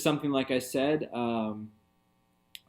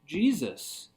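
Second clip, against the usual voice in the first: rising excitement, second time higher; a preacher lit up by the passage; excited realization; 5 semitones higher, slower than usual. Real, not acted. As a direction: say it with growing delight. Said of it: "I'm like".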